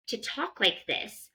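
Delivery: ordinary talk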